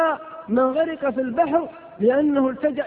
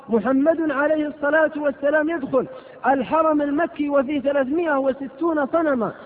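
normal talking voice

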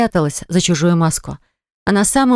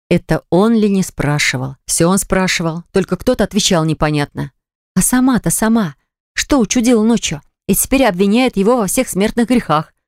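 ordinary delivery

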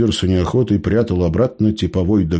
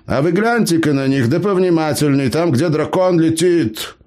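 put-on high-pitched cheeky old gnome; pitched-up gnome, boasting to the bandits; 9 semitones higher than usual. A narrator's reading. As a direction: play the crafty gnome, pitched well up. Gnome Eber speaks.

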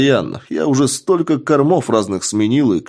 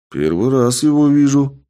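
lie boldly, pitched up; brazen, higher-pitched denial; 6 semitones higher, 4 dB louder than usual. A narrator's reading. Suspect denying the pistol to the investigator, brazenly lying. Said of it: "нагло соврал я".

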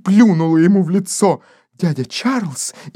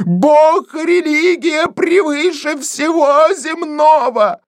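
higher, slow fervent cry; pious shriek; 9 semitones higher, slower than usual. Acted. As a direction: hammer out each word in fury. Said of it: "кричала Денти". (Денти кричит гостю, высокий медленный гневный крик)

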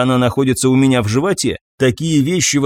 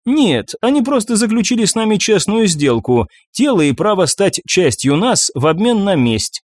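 higher female spirit voice, defiant; banshee voice; 3 semitones higher than usual. Acted. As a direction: play the captured banshee.

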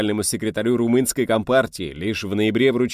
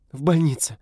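blurting out; 7 semitones higher than usual. A narrator's reading. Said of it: "выпалила Рита".

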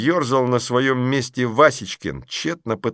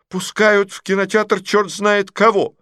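high, louder outraged lady; indignant outburst; 11 semitones higher, 5 dB louder than usual. Acted. Lady behind complains about the kids, outraged. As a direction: huff like a scandalized lady. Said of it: "возмутилась дама".

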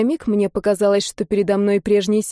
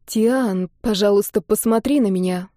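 soft plea. Acted. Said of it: "мягко попросила я".

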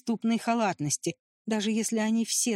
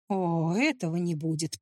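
warning; 5 semitones lower than usual. Acted. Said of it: "предупредила его Николь".

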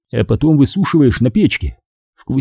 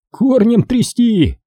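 mock chuckling; 12 semitones higher, slower than usual. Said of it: "хохотнул кто-то".

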